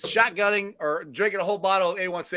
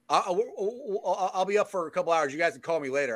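imitating a drunk friend; 2 semitones lower, 5 dB quieter than usual. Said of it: "your words were".

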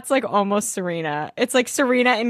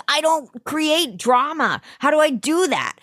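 imitating Kate; 8 semitones higher than usual. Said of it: "And Kate's like".

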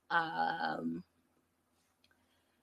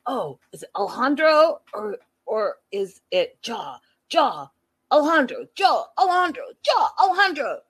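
higher and louder chanting shout; excited shouting; 3 semitones higher, 4 dB louder than usual. Retold or imitated. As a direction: chant the names like a game show. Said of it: "he's gonna be like".

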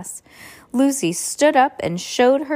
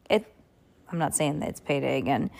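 ordinary delivery, nothing marked

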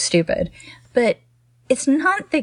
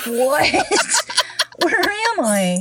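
imitated bewilderment, laughing; 5 semitones higher, slower than usual. Voicing bewildered actor in a Kmart.

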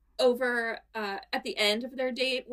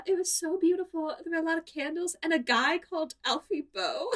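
dreamy gushing; 6 semitones higher than usual. Retold or imitated. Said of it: "when she was like".

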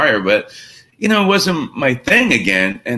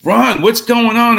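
slow, pointed, higher call to the manager; retold annoyance; 11 semitones higher, 5 dB louder, slower than usual. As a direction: replay being fed up, slowly and higher. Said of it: "I'm pretty pissed off".

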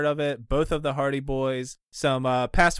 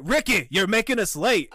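nagging showrunner; 6 semitones higher than usual. Retold or imitated. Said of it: "showrunners were like".

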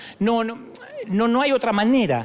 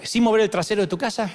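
a hint of a fast pitchman; mock a multilevel recruiter's pitch; pushy salesman. Recruiter pitching Dante to get rich fast, lightly mocked. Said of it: "no se tienen que acercar con esa táctica".

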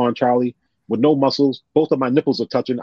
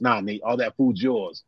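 gentle refusal; 6 dB quieter, slower than usual. Retold or imitated. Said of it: "He goes".

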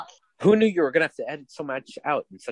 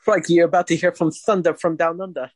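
mock Australian accent; 5 semitones higher than usual. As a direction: announce it as a hammed-up Australian. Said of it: "best Australian climaxes of".

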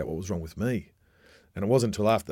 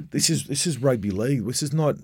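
raised, scoffing "this is rugby league"; dismissive retort; 3 semitones higher than usual. Retold or imitated. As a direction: brush the kid off, tough-guy bluster. Captain brushes off young player.

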